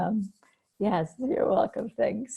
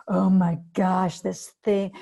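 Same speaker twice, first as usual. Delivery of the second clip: panicked naming; 8 dB louder, slower than usual. Shown as a demonstration. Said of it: "if you name it like".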